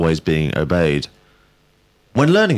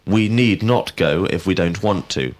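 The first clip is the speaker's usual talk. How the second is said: "not" given the emphasis; stress on not. Shown as a demonstration. Teacher giving a negative example, stress on "not". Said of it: "we emphasize the word not".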